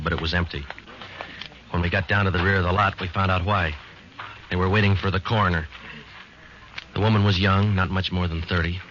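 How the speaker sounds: calm, grave narrator voice; story narration. A narrator's reading. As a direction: report the scene soberly. Detective narrates crime scene.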